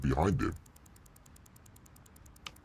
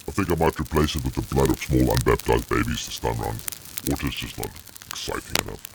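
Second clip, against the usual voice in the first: demon voice; 3 semitones lower than usual. Acted. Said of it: "I was speaking as a demon".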